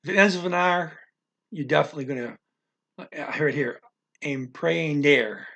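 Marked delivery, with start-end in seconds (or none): 4.2-5.5 empreender drawn out slowly, final -der stressed; stress on last syllable. Shown as a demonstration. Teacher giving an example ending in R, empreender stressed on -der. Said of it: "stress goes on the last syllable".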